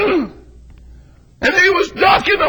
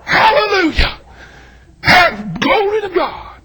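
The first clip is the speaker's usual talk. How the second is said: retold praise shout; slower than usual. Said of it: "I shouted".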